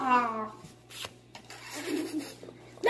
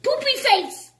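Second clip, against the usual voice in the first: silly squeal; 8 semitones higher than usual. Real, not acted. Child's silly nickname.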